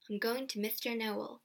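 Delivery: soft, subdued resolve; quiet. A narrator's reading. Child alone facing Pendle Hill, quietly. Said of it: "I said quietly".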